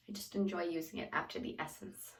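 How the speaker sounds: breathless, soft and airy; out of breath while talking. Real, not acted. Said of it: "excuse my out of breath or my breathing".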